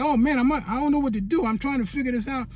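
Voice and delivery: upset, rushing through the helplessness. Retold or imitated. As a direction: relive not knowing what to do. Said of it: "but I was upset".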